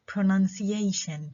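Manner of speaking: slow "Pronunciation", lighter stress on the second syllable; secondary stress shown. Shown as a demonstration. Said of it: "المقطع الثاني من هذه الكلمة".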